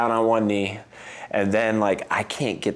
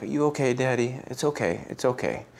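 put-on higher and softer, a small child's soothing voice; little boy comforting; 3 semitones higher, 5 dB quieter than usual. Toddler comforting his play-crying daddy, high and soft. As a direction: imitate the toddler petting daddy.

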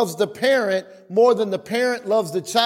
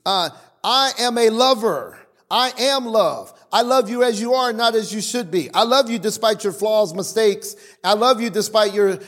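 voice of God. Retold or imitated. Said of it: "Because God is saying".

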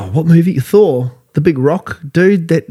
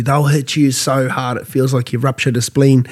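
ordinary talk

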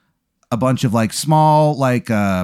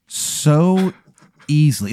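raised pitch, lingering and suggestive; hammed-up sensual description; savoring narration; 5 semitones higher, slower than usual. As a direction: savor the words teasingly. Continues the savored whiskey description.

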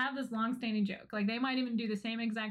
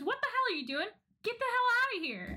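mock scolding; 11 semitones higher than usual. The speaker yelling at the boys to leave, mock scold. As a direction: chase them off like an annoyed sister.

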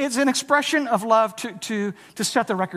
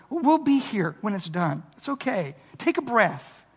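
softer, calm reassurance; reassuring; 3 dB quieter than usual. Retold or imitated. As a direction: soothe a stressed friend. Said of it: "Jesus is essentially saying".

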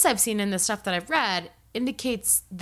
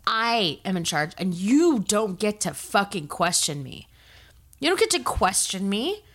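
mock yelling abuser. Host mocking an entitled man's rage, a hammed-up yell. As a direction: imitate an outraged man in charge. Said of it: "And then I'm gonna yell".

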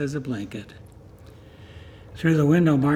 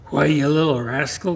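scolding; 4 dB louder than usual. Acted. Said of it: "was scolding".

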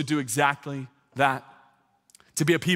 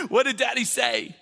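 excited retelling; 9 semitones higher than usual. Retold or imitated. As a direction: replay it to the crowd with gusto. Replaying exchange loudly.

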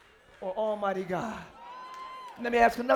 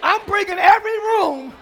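call and response line; 4 semitones higher, 4 dB louder, slower than usual. Shown as a demonstration. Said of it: "Look at your neighbor and say".

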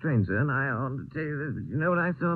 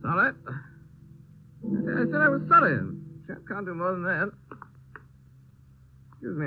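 put-on drunk. Drunk man rambling at night.

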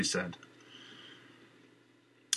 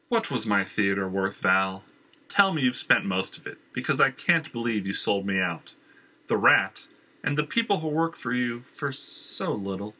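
a charming, pushy villain at the door; Jenner's voice. Acted. Jenner oozes false charm at Valerie's door. Jenner confronts her betrayal.

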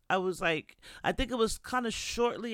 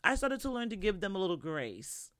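usual speaking voice

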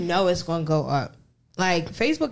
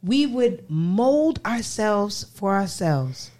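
mock heartfelt reading. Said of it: "Stop reading it like that".

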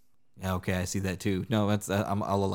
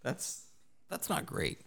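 winced breathy aside; 9 semitones higher, 10 dB quieter, slower than usual. Real, not acted. Wincing at bone story.

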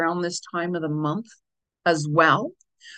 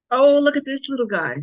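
high, louder coo over a cute animal; delighted; 6 semitones higher, 5 dB louder than usual. Real, not acted. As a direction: gush over the little turtle. Delighted at turtle on card.

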